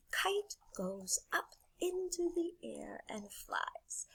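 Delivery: soft, slow, half-whispered; hushed wonder. A narrator's reading. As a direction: breathe it out in awe. Hushed wonder at story's climax.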